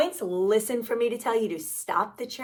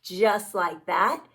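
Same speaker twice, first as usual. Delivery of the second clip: slow; 3 semitones lower, slower than usual. Shown as a demonstration. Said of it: "let me see you turn around".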